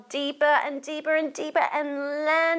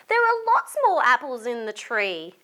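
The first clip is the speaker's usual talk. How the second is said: Molly voice; 3 dB louder, faster than usual. Acted. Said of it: "said Molly".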